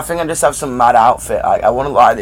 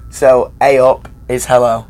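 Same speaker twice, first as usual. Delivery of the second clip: slow teaching voice. Shown as a demonstration. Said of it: "teach you how to ... in Yorkshire".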